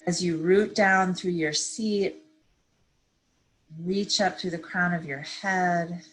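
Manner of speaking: calm, unhurried meditation guide; measured phrases with long pauses to breathe; guided meditation. Real, not acted. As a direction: ease listeners gently into stillness. Leads a seated meditation.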